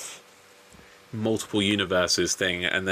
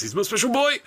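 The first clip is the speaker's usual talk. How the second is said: much higher, strangled imitation; choked-up Doctor Evil; 13 semitones higher, 3 dB louder than usual. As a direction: squeak it out as if choked with emotion. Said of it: "like Doctor Evil when he gets choked up".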